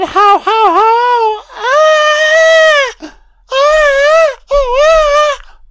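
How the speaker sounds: high, loud hammed-up Santa yell; mock McClane. Commentator hamming up McClane's machine gun gag. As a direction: shriek it like a panicked henchman.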